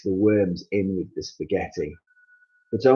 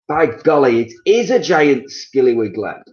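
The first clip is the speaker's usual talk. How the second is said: high, loud fake astonishment; mock-amazed Mister Twit; 6 semitones higher, 7 dB louder than usual. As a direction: play it up to frighten her. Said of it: "said Mister Twit".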